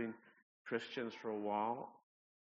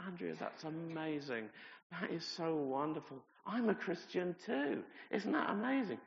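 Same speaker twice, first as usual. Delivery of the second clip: retold eager reply; 5 semitones higher than usual. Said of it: "I said".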